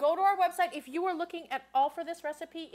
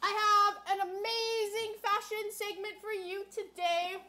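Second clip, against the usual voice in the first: talking with a mouth full of food; 5 semitones higher, slower than usual. Real, not acted. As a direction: say it while still chewing. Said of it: "Sorry if I'm talking with my mouth full".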